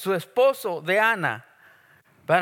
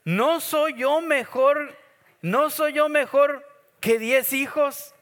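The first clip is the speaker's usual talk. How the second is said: slow, raised, self-satisfied question; the husband preens, sure he is enough; boastful husband; 7 semitones higher, 3 dB louder, slower than usual. Retold or imitated. Preacher mimicking Elcana asking his wife, slow and raised. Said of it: "miren la siguiente".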